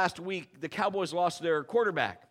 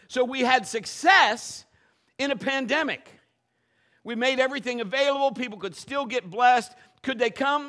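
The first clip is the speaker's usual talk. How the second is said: louder, driving sermon delivery; fervent preaching; 5 dB louder than usual. Acted. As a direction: preach it with conviction to the congregation. Preaching with rising force.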